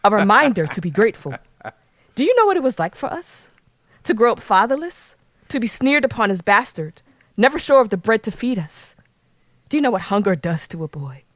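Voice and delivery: dramatic speech in a put-on British accent. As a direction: play the bitter grievance in an affected British accent. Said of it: "Let me speak in an accent".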